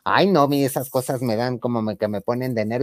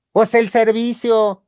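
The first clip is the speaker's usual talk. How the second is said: slow mock insistence; 9 semitones higher, 6 dB louder, much slower than usual. Woman demands payment.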